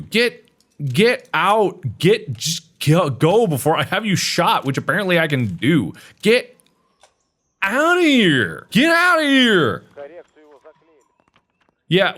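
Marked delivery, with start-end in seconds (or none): 0.0-9.8 high, drawn-out get out; angry high yell. Acted. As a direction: shoo them off in a huff. Guard chasing someone off.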